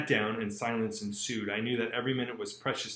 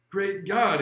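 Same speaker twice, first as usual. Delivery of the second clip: startled exclamation; 7 semitones higher, 12 dB louder than usual. Acted. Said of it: "exclaimed the old man".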